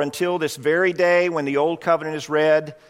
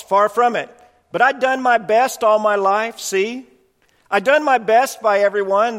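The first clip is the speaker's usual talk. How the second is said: a proud ghost insisting he did his best, pitched up; indignant ghost; 4 semitones higher than usual. Acted. Ghost defends himself, read aloud.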